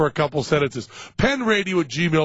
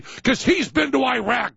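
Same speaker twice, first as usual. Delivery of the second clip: slipping into a New England accent; slow New England accent, higher; 7 semitones higher than usual. Real, not acted. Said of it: "my New England accent just went, went haywire there".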